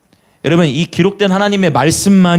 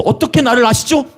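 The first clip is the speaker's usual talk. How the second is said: 높아진 목소리로 놀라며 묻기; 나다나엘이 예수께 놀라 묻는 말투; surprised question; 8 semitones higher than usual. Retold or imitated. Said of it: "이제 태도가 좀 달라졌어".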